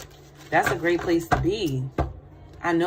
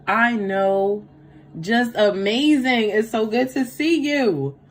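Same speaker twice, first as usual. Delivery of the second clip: louder, higher, delighted; gushing welcome; 3 semitones higher, 5 dB louder, slower than usual. Real, not acted. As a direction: pour on the joy for a regular viewer. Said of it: "gushing welcome".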